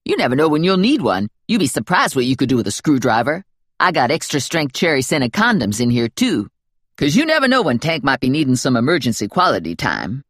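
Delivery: a hint of a sassy friend's voice; breezy, matter-of-fact confidante; lightly voiced Lula. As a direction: Lula explaining her purse to Stephanie, lightly voiced.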